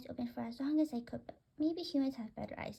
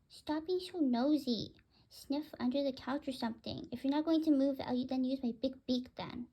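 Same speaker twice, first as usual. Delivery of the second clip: mock scolding; 4 dB louder than usual. Bird scolding the cat.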